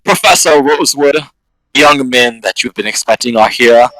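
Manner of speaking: lightly voiced formal butler announcement; proper butler. Butler presenting visitors to the professor, mildly formal and proper. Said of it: "very, like, proper voice about himself".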